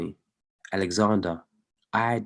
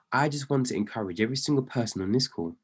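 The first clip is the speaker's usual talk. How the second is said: hushed whisper; 6 dB quieter, faster than usual. Real, not acted. Sudden hushed encouragement to listeners.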